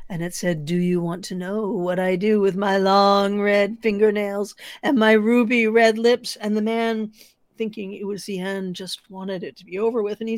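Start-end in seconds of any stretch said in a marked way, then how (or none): 0.7-6.4 louder, menacing creature. Acted. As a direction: threaten him up close. Creature leaning in close.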